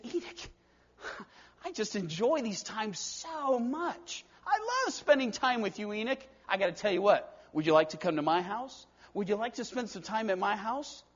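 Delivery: soft, fond invitation from God; tender God. Acted. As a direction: gently coax a dear friend home. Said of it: "God just said".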